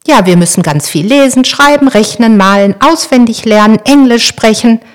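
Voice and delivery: put-on girl proudly telling her brother about school; enthusiastic listing. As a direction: rattle it off with growing delight. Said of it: "voller Begeisterung".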